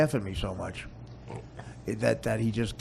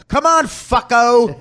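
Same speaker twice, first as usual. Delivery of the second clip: slow, loud, higher tough-cop yell; cop talk; 13 semitones higher, 15 dB louder, slower than usual. Retold or imitated. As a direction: drag it out like a hammed-up movie cop. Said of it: "they talk like cops".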